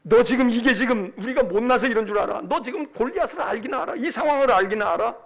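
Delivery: indignant dressing-down in rapid questions; acted big-brother telling-off; scolding older brother. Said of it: "다윗의 형이 다윗을 불러다가 막 야단을 칩니다".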